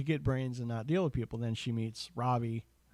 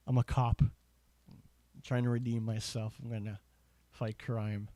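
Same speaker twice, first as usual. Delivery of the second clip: put-on light Irish accent for a vampire cop; a hint of Irish in a mock hero line; slipping into an unplanned Irish accent; slower than usual.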